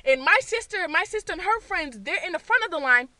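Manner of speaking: ordinary delivery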